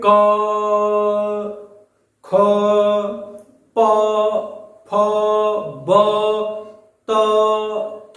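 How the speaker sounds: क, ख, प, फ, ब, त, थ each sounded separately with an open "a"; demonstrated consonant sounds. Shown as a demonstration. Teacher showing students where air strikes the mouth, consonants sounded one by one. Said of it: "मुख के भाग से टकराती है".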